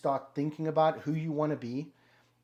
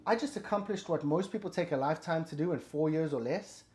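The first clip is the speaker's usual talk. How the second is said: amazed, fired-up self-talk; 5 semitones higher, 4 dB louder than usual. Retold or imitated. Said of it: "'Cause you're like".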